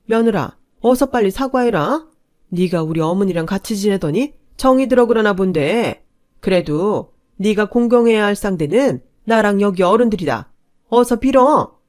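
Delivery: loud, commanding, pitch up on the orders; stern demand. Acted. Father-in-law orders the daughter-in-law to apologize, loud and stern. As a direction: order her to beg.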